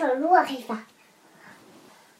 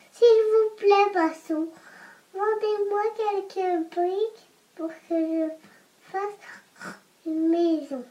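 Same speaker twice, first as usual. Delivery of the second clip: little pig voice. Acted. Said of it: "J'aime bien quand tu fais le cochon".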